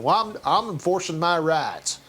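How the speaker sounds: lightly put-on Southern dialect for the gun carrier; a hint of a slow Southern yokel; mock Southern drawl. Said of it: "an idiot type of dialect".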